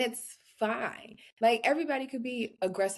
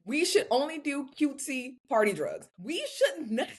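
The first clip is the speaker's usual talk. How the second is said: mock girly voice; 6 semitones higher than usual. Mocking girly voice.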